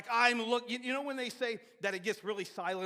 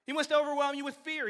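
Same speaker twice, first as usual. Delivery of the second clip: louder and higher, driving home fear; emphatic preaching; 7 semitones higher, 7 dB louder than usual. Acted. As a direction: preach it hard, rising to a peak. Preacher builds on enemy's aims.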